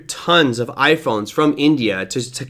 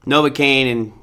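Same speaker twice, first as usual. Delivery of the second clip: slurred speech, numb mouth; talking through a numb jaw; numb from the dentist; 2 semitones lower than usual. Real, not acted. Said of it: "sorry if my speech is a bit slurred".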